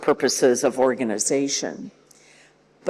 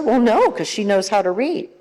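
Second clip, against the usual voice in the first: dismissive parent; 5 semitones higher than usual. Retold or imitated. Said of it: "because they'll tell you".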